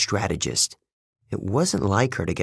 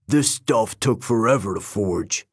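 warning. Acted. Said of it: "Beckendorf warned me".

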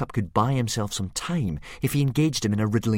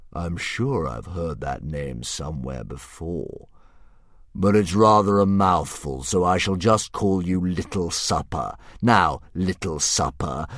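slow, a hint of a grand beast; drawn out like a pleased old dragon; lightly voiced dragon; 6 dB louder, slower than usual. Dragon musing over Hiccup's riddle, slow and lightly grand.

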